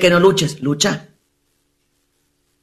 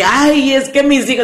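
higher mocking voice of a parent; mock whiny parent; 5 semitones higher than usual. Mocking a parent who hides behind the kids, higher voice. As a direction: parody the excuse, higher.

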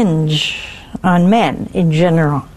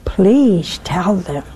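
gentle; 2 semitones lower, much slower than usual. Shown as a demonstration. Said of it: "in a nice way".

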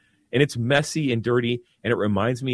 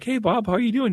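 higher-pitched, casual mock hello; retold friendly greeting; 10 semitones higher than usual. Priest greeting a homeless man at the children's camp, friendly. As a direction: lift the voice into an easygoing greeting.

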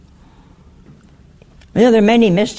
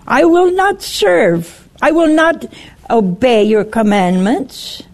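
defiant Lucifer; 3 semitones higher than usual. Acted. Preacher voicing Lucifer refusing God, lightly voiced defiance.

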